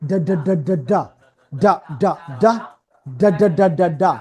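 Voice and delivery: repeated ডা syllables, voiced without a puff of air; voiced d drill. Shown as a demonstration. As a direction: drill ডা in short rhythmic groups. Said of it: "আওয়াজ বেরোবে". (বাতাস ছাড়া আওয়াজ দিয়ে ডা, ডা)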